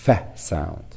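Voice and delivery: "F" said as its sound, "feh"; blended letter sound. Shown as a demonstration. Teacher showing what P and H make, "F" as "feh". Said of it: "they get a third sound".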